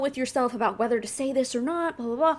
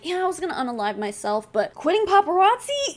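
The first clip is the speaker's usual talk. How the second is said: mocking imitation; 5 semitones higher than usual. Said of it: "He's like".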